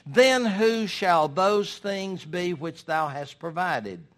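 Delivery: loud, slow, thundering rebuke; voice of God. Acted. God condemning the rich fool, booming and slow. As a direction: pronounce judgment from on high. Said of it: "God said to him".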